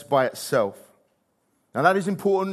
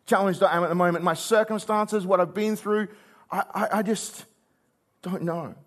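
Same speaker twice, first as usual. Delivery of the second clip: grief-stricken; 4 semitones higher than usual. Retold or imitated. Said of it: "so grief-stricken".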